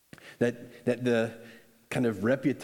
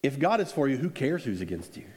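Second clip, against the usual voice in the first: casual paraphrase. Shown as a demonstration. Pastor paraphrasing the verse in his own words, nonchalant. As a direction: toss it off like it's obvious. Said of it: "This is the way I would say it".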